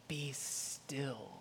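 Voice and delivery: very soft, low and slow; soft, calming near-whisper; hushed stillness. Real, not acted. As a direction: settle them with a slow, quiet hush. Demonstrates stillness.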